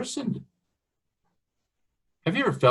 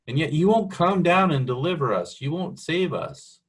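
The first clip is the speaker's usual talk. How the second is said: higher-pitched, aggrieved plea; pleading complaint; 5 semitones higher than usual. Acted. Prophet complaining to God about not being delivered, pleading. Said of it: "It's a little bit of a complaint here".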